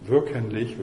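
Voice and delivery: "wirkenlich" in three syllables, wir-ken-lich; archaic form. Shown as a demonstration. Lecturer cites the mystics' "wirkenlich" as wir-ken-lich, archaic form. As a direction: sound the middle "ken" in "wirkenlich". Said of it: "haben es gebildet aus".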